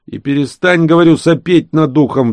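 high, loud sudden yell. Acted. Genka snapping at Vityok behind him, yelling. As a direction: yell at whoever is breathing down his neck. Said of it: "вдруг заорал Генка".

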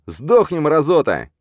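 high, loud battle yell; furious shout. Acted. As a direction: scream it while firing. Battle cry. (яростный крик)

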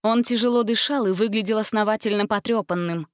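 usual speaking voice

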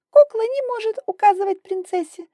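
put-on high, loud bratty child voice; cheeky little princess talking down; brattish little girl. A narrator's reading. Spoiled girl sneering at the doll girl, high and bratty. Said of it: "нагло заявляла Илария".

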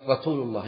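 رسول said "ratul"; lisped S as T. Shown as a demonstration. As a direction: put a t where the s is in رسول. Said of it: "السين ينطقها تاء".

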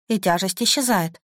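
ordinary delivery, nothing marked

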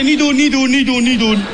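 mock warning to himself. Warning himself about the clock.

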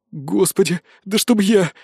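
high whining lament; a mild hammed-up wail of complaint. A narrator's reading. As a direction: moan about his fate while obeying. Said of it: "причитал головоногий".

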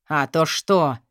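low, taunting question; mock her threat. Boss mocking Katya's demand, low taunt. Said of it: "издевательски ухмыльнулся начальник".

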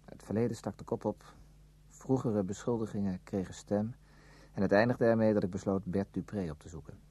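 measured literary narration; story narration. A narrator's reading. Narrator recalling his decision to visit Bert, calm narration. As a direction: tell it as a memoir. First-person narrator passage.

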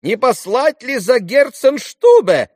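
высокий громкий испуганный возглас; взволнованно воскликнуть. A narrator's reading. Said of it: "воскликнула было госпожа Хохлакова". (мать в испуге восклицает про доктора)

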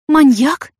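high, loud startled gasp; shocked gasp. A narrator's reading. Яна в ужасе ахает, услышав о маньяке. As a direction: gasp the word out in fright. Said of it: "ахнула Яна".

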